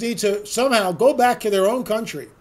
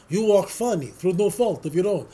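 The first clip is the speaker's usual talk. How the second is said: gypsy woman. Retold or imitated. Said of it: "the gypsy woman".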